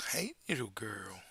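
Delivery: soft breathy whisper to the dog; whispered pet greeting. Real, not acted.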